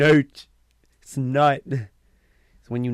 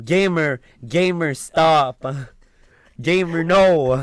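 mock scolding; 5 semitones higher, 9 dB louder, much slower than usual. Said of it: "J'étais comme".

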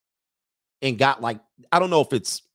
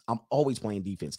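"always playing defense" repeated softer and lower; quieter repeat; 3 semitones lower, 6 dB quieter than usual. Real, not acted. Coach repeating his point to chat, softly. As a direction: let the repeat drop away softly.

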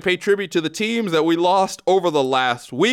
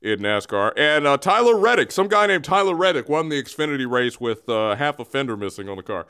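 alien voice. Acted. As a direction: greet the Earthlings like a visiting alien. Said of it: "Here is Bagman".

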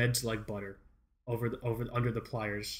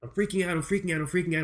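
higher-pitched, repetitive mock panic; retold freak-out; 4 semitones higher, faster than usual. Telling of panic over the broken printer, mock freak-out. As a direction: babble it as a comic freak-out.

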